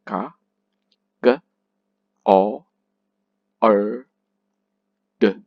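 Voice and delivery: Ka, G, O, R, D as separate sounds; sounded out. Shown as a demonstration. Teacher spelling out cord by sound, one sound at a time. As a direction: break cord into isolated sounds with long pauses. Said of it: "You pronounce C as K".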